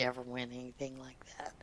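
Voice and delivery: low, breathy whisper; whispered modest aside. Real, not acted. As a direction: murmur it modestly.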